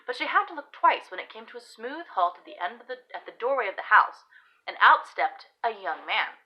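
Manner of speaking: expressive period-romance narration; story narration. Acted. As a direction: read the tale aloud with emphatic key words. Reads own story aloud.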